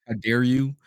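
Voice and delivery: normal talking voice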